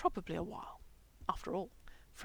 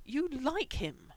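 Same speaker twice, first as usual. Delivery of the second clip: slow, higher, louder call; shouted; 7 semitones higher, 4 dB louder, much slower than usual. Acted. Frank shouting up to Bob from under the bed, slow and loud. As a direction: call it up to him, drawn out. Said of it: "he shouted up to Bob".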